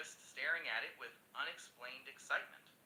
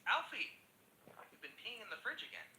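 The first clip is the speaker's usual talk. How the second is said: wife's scream; 9 semitones higher than usual. Acted. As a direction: scream it at the husband in exasperation. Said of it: "and screams".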